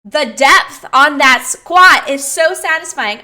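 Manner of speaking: loud, overcome, sounds first then words; tearful. Real, not acted. Coach moved by a client's squat depth, tearful and loud. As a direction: apologise through happy tears. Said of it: "I'm really crying".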